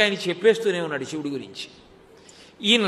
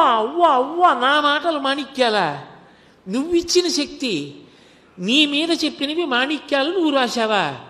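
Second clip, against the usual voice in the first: overwhelmed with joy; 4 semitones higher than usual. Acted. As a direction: cry out to Shiva in overwhelmed devotion. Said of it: "ఆనందం ఆగలేదు ఆయనకి, ఉద్వేగం పొందేశాడు". (ఉప్పొంగిన ఆనందంతో, ఉద్వేగంగా)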